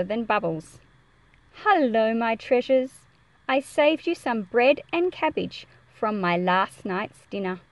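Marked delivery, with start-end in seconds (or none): 1.6-7.6 fond greeting. Acted. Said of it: "the first time the character has spoken".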